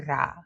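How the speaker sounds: "ra" with a rolled R; "ra" with a tongue-tip trill. Shown as a demonstration. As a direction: roll the tongue on "ra". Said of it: "add the tongue roll".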